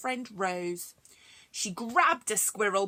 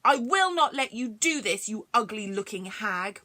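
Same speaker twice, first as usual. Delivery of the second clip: angry; 5 dB louder than usual. Acted. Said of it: "He was looking very mad".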